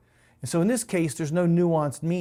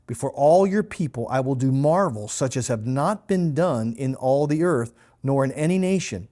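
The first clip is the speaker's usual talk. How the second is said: louder, emphatic Bible reading; scripture reading; 3 dB louder than usual. A narrator's reading. Bible teacher quotes Exodus to listeners, emphatic scripture reading. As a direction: read the verse out firmly.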